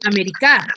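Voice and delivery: América as Ame-ri-CÁ, weight on the final CA; stress on last syllable of América. Shown as a demonstration. Teacher rejects a wrong version for students, América stressed on the final syllable. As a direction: land hard on the end of América, the CA. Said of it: "que está en la K, ¿cómo está, cómo lo pronunciaré?".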